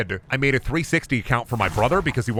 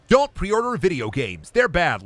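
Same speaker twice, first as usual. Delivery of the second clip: mock preachy YouTuber; 5 semitones higher, slower than usual. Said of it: "every internet guy who's like".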